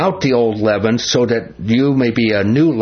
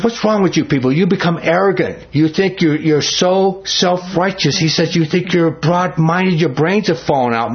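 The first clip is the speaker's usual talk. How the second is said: higher-pitched indignant scolding; livid scolding; 5 semitones higher than usual. Retold or imitated. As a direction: scold the church like an outraged apostle. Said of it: "he was just livid with this church".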